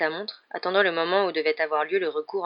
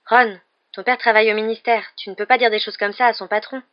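indignant, higher and louder; scandalised; 5 semitones higher, 7 dB louder than usual. A narrator's reading. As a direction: scold a friend, mildly outraged. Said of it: "paraissait tout aussi scandalisée que lui".

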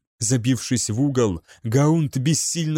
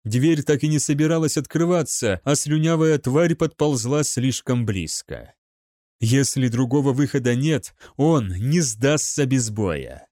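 plain reading voice

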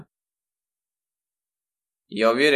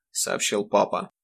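usual speaking voice

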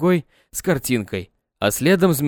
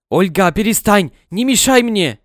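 злой, громкий окрик жене; резко одёргивает Ольгу, громче; 7 semitones higher, 5 dB louder than usual. Acted. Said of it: "Голос мсье Жака был злой". (Жак зло и громко осаживает Ольгу)

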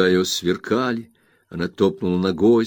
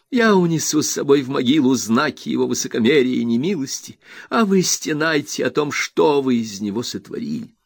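Rosa, furious; 8 semitones higher, 4 dB louder than usual. A narrator's reading. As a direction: hammer each word into the mother. Rosa accuses the mother. (Роза в ярости бросает обвинение матери)

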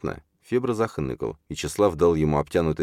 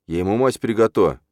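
pleading protest; 5 semitones higher, 4 dB louder than usual. A narrator's reading. Boy protests amid quarrel.

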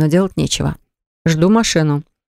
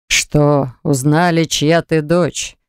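cynical; much slower than usual. Acted. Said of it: "цинично хмыкает отец".

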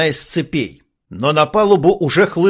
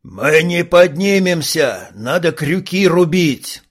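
mild yell; 2 semitones higher, slower than usual. Acted. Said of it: "заорал один из пиратов".

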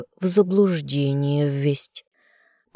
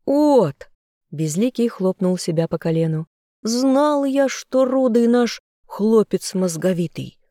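gleeful; 5 semitones higher than usual. Acted. Villain gloats at agreement.

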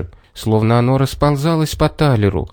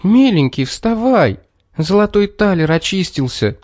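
jubilant shout; 7 semitones higher than usual. A narrator's reading. Girl waking the little man, high jubilant shout. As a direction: shout the good news in triumph. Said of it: "ликующе крикнула".

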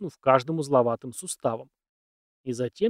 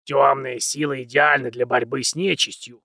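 fervent; 4 dB louder than usual. Acted. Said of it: "с неожиданным жаром".

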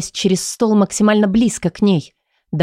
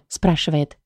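plain reading voice

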